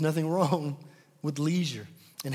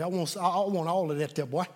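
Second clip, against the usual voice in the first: a hint of a cocky old security guard; classic Old Otis voice. Preacher retelling Old Otis taunting the bodyguard, light old-man voice. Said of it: "in the classic Old Otis voice".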